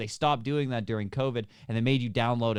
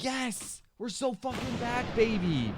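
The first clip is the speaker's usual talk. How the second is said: mock elated; 9 semitones higher, slower than usual. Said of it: "I was like".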